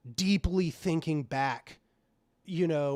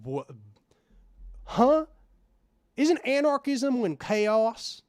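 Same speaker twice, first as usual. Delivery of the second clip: confused neurotypical; 7 semitones higher, 3 dB louder, slower than usual. Retold or imitated. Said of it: "they're just like".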